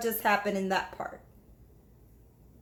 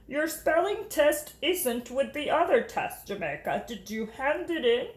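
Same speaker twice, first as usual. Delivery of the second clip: warm teacher voice. Acted. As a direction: praise her reading kindly. Teacher asks gently.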